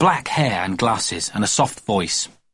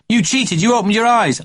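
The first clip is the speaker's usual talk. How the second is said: put-on indignant child; 10 semitones higher, 4 dB louder than usual. A narrator's reading. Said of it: "said Jeremy James".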